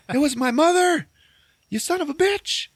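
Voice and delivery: hammed-up screaming accusation; shrieking mock rage. Willie yelling that she was his mother, shrieking mock rage. Retold angry outburst.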